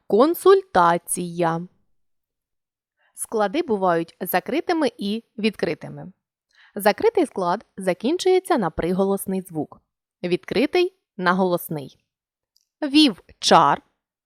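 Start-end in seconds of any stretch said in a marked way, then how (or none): 0.1-1.7 консультація said slowly, syllable by syllable; split into syllables. Shown as a demonstration. Teacher to students, splitting консультація into syllables slowly. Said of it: "Опера". 12.8-13.8 Вівчар said slowly as two separate syllables; split into syllables. Shown as a demonstration. Teacher showing students the closed syllables in Вівчар, slow syllable split. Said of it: "слово, у якому всі склади закриті".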